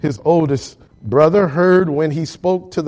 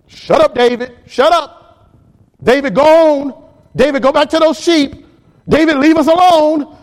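higher, louder, scolding "shut up"; angry older brother; 8 semitones higher, 4 dB louder than usual. Acted. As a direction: shoo the kid brother away in irritation. Preacher voices angry brother Eliab.

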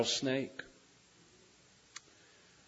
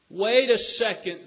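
cry out; 6 semitones higher, 8 dB louder than usual. Acted. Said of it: "the brave cried".

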